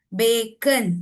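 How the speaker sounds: "बेकन" broken into bay-kuhn; schwa in second syllable. Shown as a demonstration. Teacher showing an example word, "बेकन" with schwa. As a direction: say "बेकन" with a lazy uh before the n. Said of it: "U is giving a sound".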